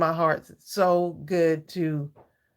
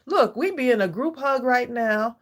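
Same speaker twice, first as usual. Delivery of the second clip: laughing; 6 semitones higher, 3 dB louder than usual. Real, not acted. Emotional moment with chat viewers.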